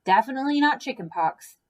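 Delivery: lively read-aloud for kids, voicing each character; children's story reading. Reads picture book to children.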